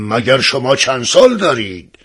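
mildly puzzled king in a character voice; understated royal surprise; astonished question. Acted. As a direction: ask it with a touch of disbelief. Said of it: "با تعجب پرسید".

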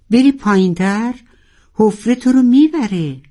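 high loud warning; shout in his ear. Acted. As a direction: yell over the struggle to stop him. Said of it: "در گوش ناروال فریاد زد". (فریاد هشدار در گوش)

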